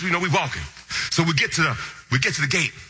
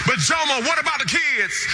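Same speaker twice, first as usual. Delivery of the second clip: wife's worry; 8 semitones higher than usual. Retold or imitated. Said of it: "I heard a voice crying out in the wilderness".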